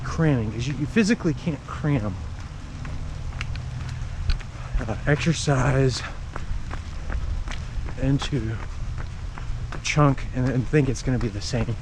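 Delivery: talking while running; a little out of breath from running; while jogging. Real, not acted. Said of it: "Like right now, if I didn't have a habit of running, I would not be out here in the rain".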